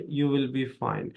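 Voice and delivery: ordinary talk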